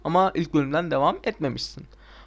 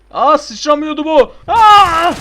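alarmed yell; 11 semitones higher, 13 dB louder, slower than usual. Acted. Character falls, player yelps.

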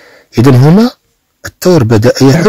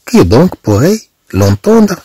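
very slow, higher French question; slow dramatic reading; 7 semitones higher, much slower than usual. Shown as a demonstration. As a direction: draw out each word slowly, pitched up. Teacher reads French text again. (قراءة بطيئة جدا بصوت مرتفع)

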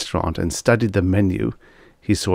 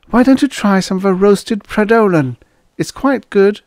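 high, louder sales pitch; for the boss's benefit; 14 semitones higher, 5 dB louder than usual. A narrator's reading. Waitress pushes the dish while boss listens, dutiful selling. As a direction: recommend it so the boss hears. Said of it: "she added for the boss's benefit".

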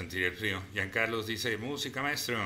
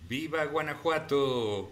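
exclaimed, higher and lively; cheering viva; 5 semitones higher than usual. Retold or imitated. Streamer reading a viewer's cheer, exclaimed. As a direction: shout it like a proud cheer for Guanajuato. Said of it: "Y dice D J Cachetón aquí abajito".

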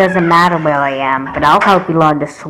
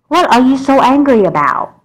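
louder, higher demand; raised questioning voice; 6 semitones higher, 4 dB louder than usual. Acted. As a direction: press her for an answer. Mom confronting upset child.

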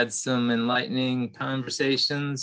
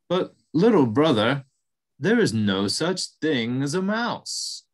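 buffalo voice; 4 dB louder, slower than usual. Acted. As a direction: greet him like a gentle giant. Buffalo explains, slowly.

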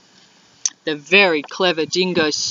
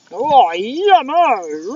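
mock delight; much slower than usual. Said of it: "Let me have a taste".

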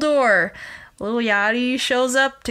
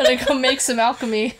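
laughing; 2 semitones higher, much faster than usual. Real, not acted. Joke line through laughter.

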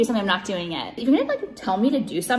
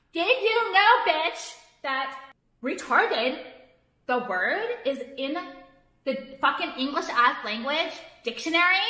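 higher, drawn-out condescending question; sarcastic mock lecture; 3 semitones higher, slower than usual. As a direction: talk down to them slowly. Mocking lecture to critics.

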